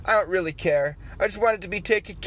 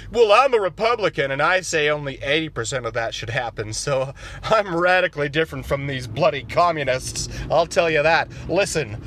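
lower, folksy conservative voice; low Republican caricature; 5 semitones lower than usual. Acted. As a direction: talk down low like a good ol' boy. Acted Republican character.

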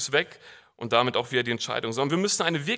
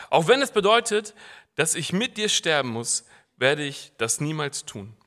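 Peter's vow; 6 dB louder than usual. Acted. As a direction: swear it loud and sure. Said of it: "rief Petrus". (Petrus ruft laut und entschlossen)

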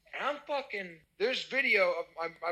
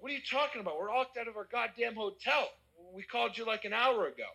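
higher-pitched retold indignation; indignant protest; 4 semitones higher, faster than usual. Locked-out guest protesting to the police, indignant. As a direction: act out arguing back, incredulous.

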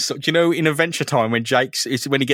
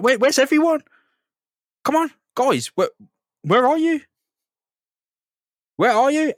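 very high, mock-anxious calls; hammed-up lost henchman, pitched way up; worried calling out; 11 semitones higher than usual. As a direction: call into the dark for your missing men. Lone hostage taker calls for his men.

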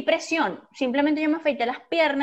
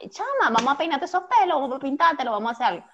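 pushy friend; 3 semitones higher, faster than usual. Retold or imitated. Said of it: "y yo voy a estar".

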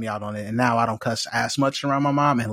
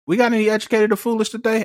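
announcer tease; 11 semitones higher, faster than usual. Acted. Host playing announcer.

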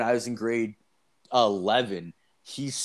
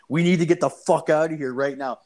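high, louder imitation of an urgent friend; panicked buddy; 5 semitones higher, 3 dB louder than usual. Buddy grabbing his friend to flee, imitated panic. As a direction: plead urgently, pitched up, as a retold panic.

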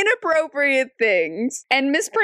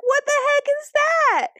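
very high-pitched incredulous demand; retold shocked challenge, pitched way up; mock confrontation. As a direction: confront someone in an acted, squeaky-high voice. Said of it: "Betty just confronts Stephanie".

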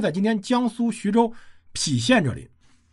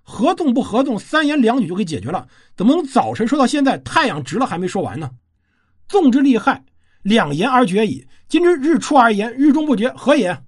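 retold loud call; 2 semitones higher than usual. The retainer Mao Sui shouts up at the king, a mild mock shout. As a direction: narrator retelling Mao Sui calling out loud from the steps. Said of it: "高声喊".

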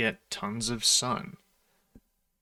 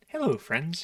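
high squeaky Mickey Mouse attempt; badly faked high cartoon mouse greeting; 6 semitones higher, slower than usual. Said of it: "I can't even do a Mickey Mouse impression".

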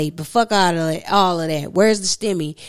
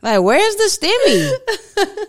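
mock whiny pitch jump; 10 semitones higher, 3 dB louder than usual. Mocking her own impatience with a high laughing squeal. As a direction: voice leaps higher on stimmy with laughter.

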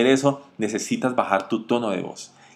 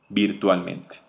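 Virtualmente repeated softer and lower; softer, lower echo; 6 semitones lower, 7 dB quieter, slower than usual. Shown as a demonstration. Sales coach showing the power of voice, softly. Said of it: "Y esta es la voz".

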